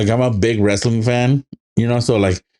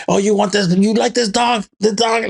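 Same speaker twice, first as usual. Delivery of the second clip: high taunting villain, teasing the dog; mock taunting; 10 semitones higher than usual. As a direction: tease like a cruel soldier, pitched up. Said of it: "And it's like".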